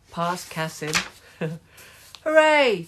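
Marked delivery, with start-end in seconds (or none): 2.2-2.8 high, loud drawn-out cheer. A narrator's reading. Team celebrating a goal, loud cheer. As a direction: cheer it out at full voice. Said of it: "cheered Owl's team".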